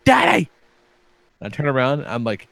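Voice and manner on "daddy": put-on child's call. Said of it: "and he goes".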